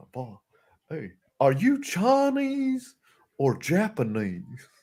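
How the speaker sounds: slow drawling Texan dad; lightly voiced neighbour quote; Hank Hill. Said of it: "Hank Hill line repeated".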